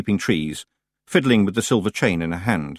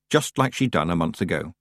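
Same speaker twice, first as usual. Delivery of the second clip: ordinary delivery, nothing marked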